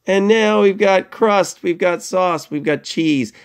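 high, slow, bright announcement of the result; excited showing off. Shown as a demonstration. Teacher proudly presents the finished pizza to class, high and excited. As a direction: build up the reveal like a game show.

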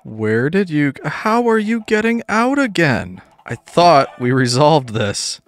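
exasperated outburst. Real, not acted. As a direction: pitch leaping high in exasperation. Mobs escape the pen yet again.

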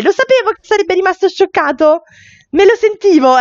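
a touch of told-you-so; knowing Deidre. Acted.

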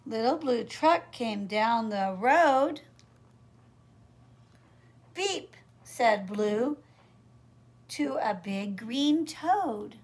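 put-on sing-song, measured read-aloud for little kids; picture-book reading. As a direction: read the rhyme to small children, lilting.

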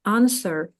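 "answer" with the w left out; teacher's model of "answer" without w; silent W. Shown as a demonstration. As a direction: say "answer" as AN-ser, for learners. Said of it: "W не читається".

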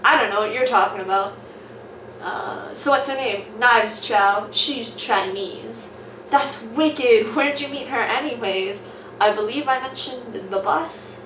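loud, hammed-up character voices; switching accents clumsily. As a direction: swap voices for each character. Reading comic aloud with character voices.

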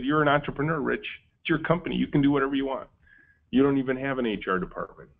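a hint of the cheerful voice urging you on; bright inner voice. Boss's hopeful inner voice answering the fearful one, light upbeat. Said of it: "And the bright voice said".

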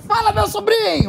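hamming up her own cheery reply; lightly voiced street greeting; mock buddy reply. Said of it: "Eu falei".

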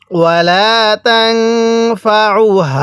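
slow ওয়ালা তানফাউহা with the ain pressed lightly in the throat, not a hamza; throaty ain. Shown as a demonstration. Teacher correcting ain against hamza, light throat pressure. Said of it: "গলার মধ্যে হালকা চাপ দিয়ে পড়লে".

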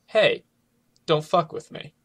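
forceful back-off threat; rude inflection. Shown as a demonstration. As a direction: turn "Hey" into a hard warning. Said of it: "can be turned into".

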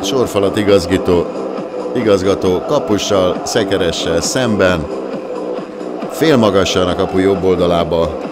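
loud, high goal call; excited Hungarian sports commentary. Real, not acted. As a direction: roar the goal, then keep it loud.

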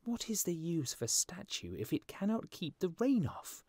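high-pitched, put-out bird; grumbling little swallow. Acted. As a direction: complain in a high, lively voice.

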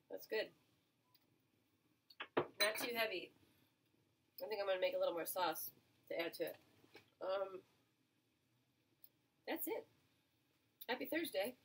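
talking with a mouthful; chewing while talking; mouth full. Real, not acted. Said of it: "Sorry I'm talking with my mouth full".

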